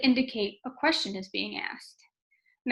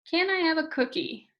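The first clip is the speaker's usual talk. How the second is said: "Can I have a cookie?" pitched higher but falling on "cookie"; read as statement; 6 semitones higher than usual. Shown as a demonstration. Teacher testing "Can I have a cookie?" as a sentence, stating it. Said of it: "Doesn't really sound like a sentence".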